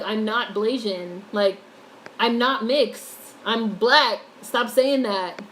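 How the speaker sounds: slow, insistent quoted protest; emphatic retold denial. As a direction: imitate someone firmly setting the record straight. Retells brother denying being mixed.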